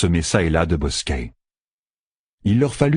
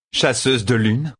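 "Chasseuse de lune" repeated higher and slow, savouring it; Lanfear repeating; 4 semitones higher, slower than usual. Acted. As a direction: roll the name out slowly, amused. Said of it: "répéta Lanfear".

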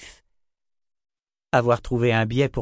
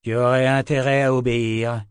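growled threat; 2 semitones higher, 5 dB louder than usual. A narrator's reading. Kara growls a warning at the creature. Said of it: "grogna Kara".

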